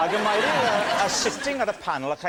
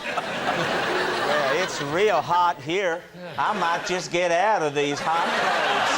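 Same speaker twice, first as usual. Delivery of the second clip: mock sultry American; slower than usual. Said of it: "it's not one of those lines".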